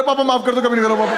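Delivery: hammed-up shout of a scared son; mock shouted plea. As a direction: yell a pleading apology through a door. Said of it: "वहीं से चला रहा".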